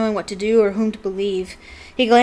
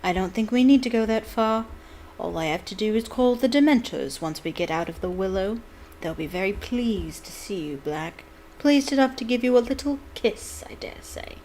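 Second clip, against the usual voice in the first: silky menacing teacher; 2 semitones higher than usual. Acted. Snape's silky threat.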